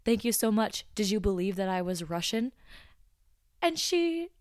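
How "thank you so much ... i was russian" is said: imitated customer's plain American accent; slightly louder, all-American delivery. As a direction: drop into a completely American accent. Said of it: "in a completely American accent".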